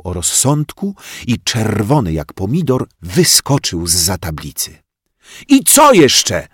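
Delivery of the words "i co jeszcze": high, loud, slow angry yell; furious yell. A narrator's reading. Bodzio leaps from behind the board, yelling furiously. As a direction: yell it at her, red as a tomato. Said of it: "wrzasnął".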